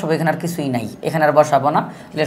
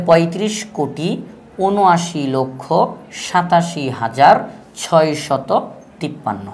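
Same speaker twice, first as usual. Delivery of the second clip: slow demo reading; slower than usual. Shown as a demonstration. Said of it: "বলতে হবে".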